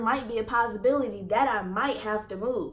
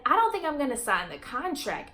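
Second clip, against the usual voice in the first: inner voice; 4 semitones higher than usual. Retold or imitated. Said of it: "thinking in my head".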